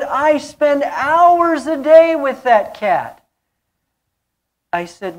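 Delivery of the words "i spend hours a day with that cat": higher, louder quoted plea; mock earnest cat lady; woman's voice. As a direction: voice the devoted cat owner a bit higher.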